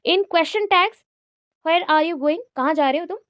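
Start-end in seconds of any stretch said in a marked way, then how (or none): 1.6-2.4 WHERE given the most weight; stress on WHERE. Shown as a demonstration. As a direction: lean on "where" at the start. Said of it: "where जो word आया तो इस पे ज़्यादा focus है".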